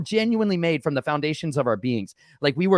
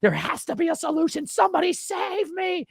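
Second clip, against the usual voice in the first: desperate plea. Retold or imitated. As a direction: beg to be saved. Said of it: "I was like".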